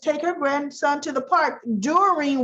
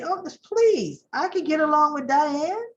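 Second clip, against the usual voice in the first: higher, pleading, near tears; pleading Phyllis; 7 semitones higher than usual. Retold or imitated. Phyllis begging Summer for the job, high and tearful. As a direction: beg with a cracking voice. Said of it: "What did she say?".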